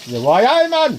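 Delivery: hammed-up Geordie "why aye man" rising to a squeak; playful Geordie impression. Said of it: "talking Geordie".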